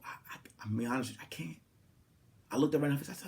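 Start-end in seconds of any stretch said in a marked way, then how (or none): 0.0-1.6 quiet, fast, hurried letdown; soft rushed refusal. Retold or imitated. Turning down the ex in the bathroom, soft rushed refusal. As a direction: hurry through it softly.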